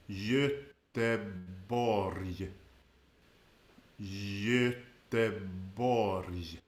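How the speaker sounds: slow Göteborg with soft j-like G's and ö; Swedish Göteborg. Shown as a demonstration. Host asks how to say it, slow Swedish pronunciation. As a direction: say Göteborg slowly, YÖ-te-borj. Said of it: "How do we say this?".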